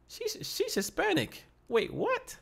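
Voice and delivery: very high, squeaky double-take; mock-incredulous, stretched and high; retold astonishment. Acts out own astonished realization.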